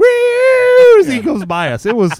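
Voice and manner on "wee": shrill, loud, very high, long drawn-out wee. Retelling a man passing the boat on a wave runner, retelling a scream. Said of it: "he's screaming".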